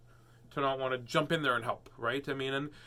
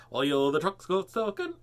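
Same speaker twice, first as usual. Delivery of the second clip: mock country twang, slightly raised; stereotypical country twang; 4 semitones higher, 5 dB louder than usual. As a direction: put on a cartoon country accent. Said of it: "It's not like a".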